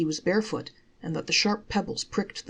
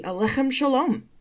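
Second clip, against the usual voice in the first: hearty greeting; 8 semitones higher, 4 dB louder than usual. A narrator's reading. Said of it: "responded with a hearty".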